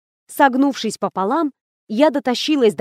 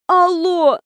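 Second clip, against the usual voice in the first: high, wheezed hello; a faked sick croak; wheezing; 7 semitones higher, 3 dB louder than usual. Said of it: "прохрипела я". (прохрипеть)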